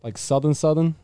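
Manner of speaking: trying out a Deep South accent; tentative American Southern accent. Shown as a demonstration. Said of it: "Let me hear some Southern".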